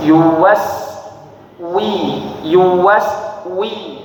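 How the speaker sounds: Yuwas with pursed lips, wi smiling; lips pursed then smile. Shown as a demonstration. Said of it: "bibirnya dimonyongkan dulu baru disenyumkan".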